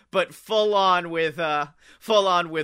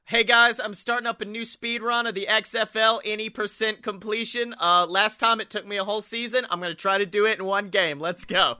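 a hint of a hyped gamer, higher; online friend hyping a speedrun; 5 semitones higher than usual. Friend announcing a new XFL speedrun to viewers, mildly hyped. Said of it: "One of my friends online was like".

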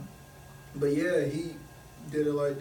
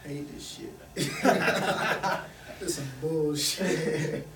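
drawn out through laughter; amused, stretched-out gripe; laughing complaint; 3 dB louder, slower than usual. Real, not acted. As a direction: laugh it out slowly. Joking complaint about burger shift.

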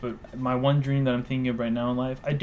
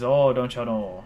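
put-on Midwestern accent; 3 dB louder, slower than usual. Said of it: "talking in your Midwestern accent".

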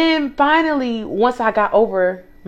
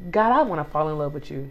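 soft prayer; 8 semitones lower, 9 dB quieter than usual. Retold or imitated. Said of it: "my spirit was just like".

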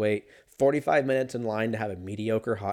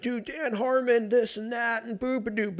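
stoned buddy; 11 semitones higher than usual. Retold or imitated. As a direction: drag it out like a baked friend. Mocking stoned buddy talk.

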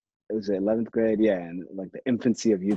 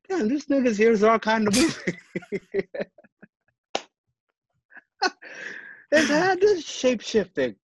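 mock amazement; 11 semitones higher, slower than usual. Retelling his own amazed reaction.

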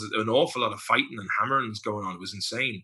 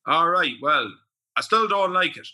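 grumpy caller impression; 4 semitones higher, 4 dB louder than usual. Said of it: "And he goes".

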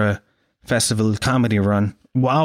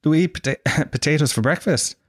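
amused disbelief; 2 semitones higher than usual. Retold or imitated. Irishman thinking they are teasing him, laughing disbelief. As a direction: own voice, laughing through the question. His own baffled laughing reply.

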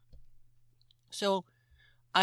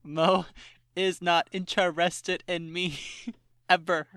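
slow, each word of "is not interested" punched; emphatic; 3 dB louder, slower than usual. Real, not acted. Friend explains why they can never date, emphatic. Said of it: "That's what the emphasis in the claps".

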